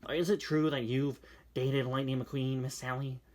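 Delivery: lightly voiced nasal-ish fan; a hint of a strange fan; mildly put-on fan club voice; odd fan voice. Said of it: "what voice do you have?".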